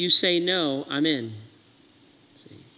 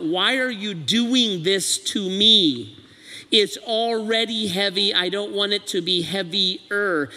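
whining athlete; slower than usual. Acted. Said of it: "The athlete is trying to bench press".

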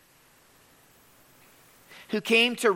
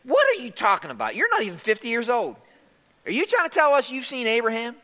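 quick, disbelieving questions; rapid-fire incredulity, acted out; incredulous challenge; 4 semitones higher, faster than usual. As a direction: fire the questions off like scoffing skeptics. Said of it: "They looked at Jesus and said".

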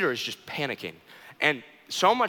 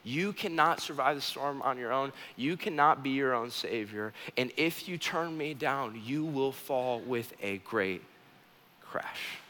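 tearful hushed warning; 6 dB quieter, slower than usual. Acted. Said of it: "warning us with a tear in his eye".

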